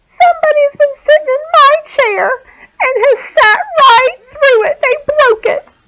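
very high, loud little bear; wee little voice. A narrator's reading. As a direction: squeal it like an upset cub. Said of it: "in his wee little voice".

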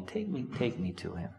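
soft, calm reply to the grieving sisters; very calmly. A narrator's reading. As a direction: say it gently, unhurried. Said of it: "Jesus says very calmly".

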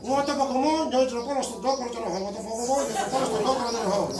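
rattling off the Javanese alphabet reversed, lightly laughing; reciting backwards. Shown as a demonstration. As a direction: show off the reversed Hono Coroko in a chant. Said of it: "Nih, contoh saya". (membaca Hono Coroko terbalik seperti hafalan)

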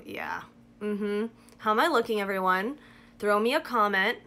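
lips covered by wet mask; talking with masked lips; speaking through sheet mask. Real, not acted. Seen 0: Sheet mask covers whole face and lips throughout; R frames show no mask.

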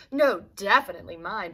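mild loud bellow; Dora bellowing. Acted. Dora bellows back at Doris, mildly loud. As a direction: bellow it half-heartedly. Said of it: "bellowed Dora".

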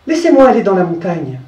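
lightly voiced goat, firm request; goat asking. The goat asking Seguin to free her, light goat voice. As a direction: ask plainly to be let go. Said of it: "lui dit dans son patois".

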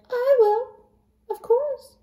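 high, haughty cat voice; snooty bored cat. Acted. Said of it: "The cat said".

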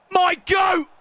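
high celebratory yell; excited shout. Real, not acted. Gamer hailing his favourite player, excited shout. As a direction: yell it high for your hero.

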